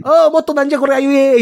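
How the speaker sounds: high excited egging on. Retold or imitated. Voicing eager onlookers.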